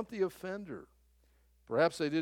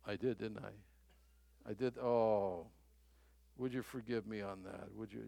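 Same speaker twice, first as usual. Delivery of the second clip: hushed and contrite, owning the mistake; sheepish husband; 7 semitones lower, 7 dB quieter than usual. Retold or imitated. Husband quietly asking his wife to forgive him. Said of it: "I got".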